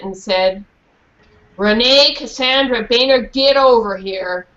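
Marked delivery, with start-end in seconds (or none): 1.6-4.5 put-on a mother summoning her child sternly; stern mom. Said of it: "in a very stern voice".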